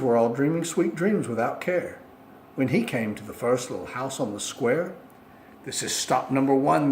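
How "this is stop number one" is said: hissed. Acted. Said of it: "the old Grinchy Claus hissed".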